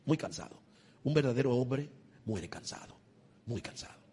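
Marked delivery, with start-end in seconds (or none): 0.1-0.6 "muy cansado" breathed out, whispered and soft; weary whisper. Acted. Preacher on men dying worn out, spent whisper. True man dies weary. 3.4-4.0 "muy cansado" breathed out, whispered and soft; weary whisper. Acted. Preacher on men dying worn out, spent whisper.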